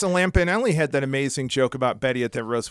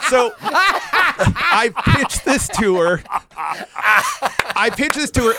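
slow, high, louder words broken by laughter; laughing; 7 semitones higher, 5 dB louder, slower than usual. Real, not acted. Telling how he pitched Betty the joke, laughing high and loud. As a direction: laugh your way through it.

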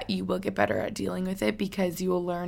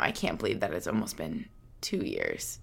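tearing up; 8 dB quieter than usual. Real, not acted. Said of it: "I feel the tears coming".

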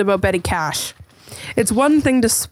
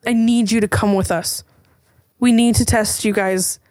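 alien voice; slower than usual. Acted. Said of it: "and he goes".

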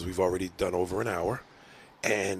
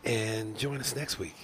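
smooth host sign-off; 3 dB quieter, slower than usual. Acted. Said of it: "let me try the tag".

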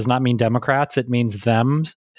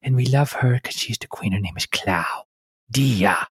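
Dia's voice; 2 semitones lower than usual. Shown as a demonstration. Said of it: "That's Dia's voice".

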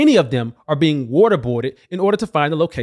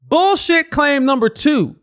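slow, higher, punchy title read; slow emphatic announcement; 8 semitones higher, slower than usual. Acted. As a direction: announce it like a headline. Title card for each claim.

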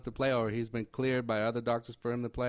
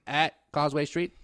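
1940s radio reporter; 3 semitones higher than usual. Pretend. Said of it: "You sound like a nineteen forties reporter".

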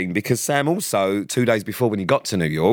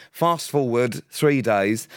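usual speaking voice

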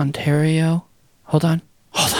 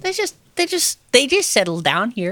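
higher-pitched mock Midwest accent; 8 semitones higher than usual. Teasing co-host about settlers, high mock Midwest accent.

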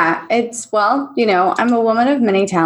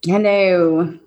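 creepy movie voice; 4 semitones lower than usual. Pretend. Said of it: "Ambrosia's testing this right now".

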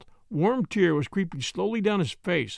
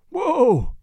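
loud, high call to rein the horse in; 7 semitones higher, 7 dB louder than usual. Acted. Driver reins in his horse as police whistle, loud call. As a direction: haul the horse up with one loud cry.

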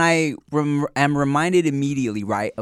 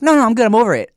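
higher, louder dismissive chirp; mock breezy ex; 9 semitones higher, 8 dB louder, faster than usual. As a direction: brush it off brightly. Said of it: "She's like".

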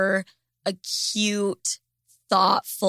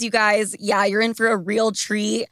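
ordinary talk

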